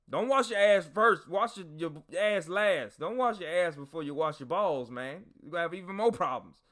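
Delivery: exasperated instruction. Retold or imitated. Soldier instructs a grown comrade in washing, mock exasperated. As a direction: act out fed-up coaching. Coaching comrade through a shower.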